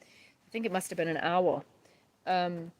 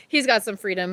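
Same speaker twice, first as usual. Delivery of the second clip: laughing through tears; 2 semitones higher, 5 dB louder than usual. Real, not acted. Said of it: "I'm gonna cry".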